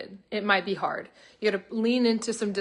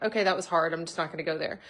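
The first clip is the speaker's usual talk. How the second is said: put-on dismissive old self; 4 semitones lower, faster than usual. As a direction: imitate checking out, voice dropping away. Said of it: "I would have just disassociated".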